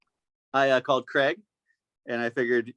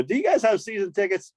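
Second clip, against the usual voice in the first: asked through a laugh, higher; laughing question; 5 semitones higher than usual. Real, not acted. Asking the drunk kids about tickets, laughing. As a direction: barely hold the laugh in.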